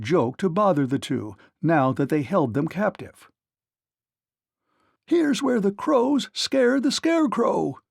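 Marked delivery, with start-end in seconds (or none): 5.0-7.8 slow, high gloating chuckle; chuckling. A narrator's reading. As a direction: tease with a naughty chuckle. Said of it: "chuckled the naughty King Crow".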